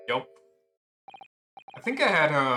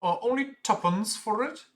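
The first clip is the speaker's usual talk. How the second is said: high outraged squeak; indignant disbelief; 8 semitones higher than usual. Acted. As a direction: squeal it, cheated out of money. Acted haggling outrage.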